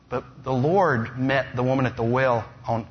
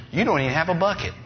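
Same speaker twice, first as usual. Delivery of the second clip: quick, higher, sarcastic retort; sarcastic bite; 5 semitones higher, faster than usual. Acted. Woman at the well scoffing at Jesus, sarcastic bite. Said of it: "She's got a little bit of a sarcastic bite to her".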